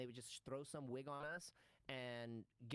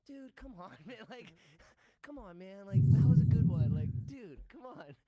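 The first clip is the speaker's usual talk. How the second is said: higher, mock exasperated plea; imitating frustrated Josh; 6 semitones higher, 20 dB louder than usual. Imitating Josh annoyed at him breaking, higher. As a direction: whine at your partner to stop breaking. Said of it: "he's like".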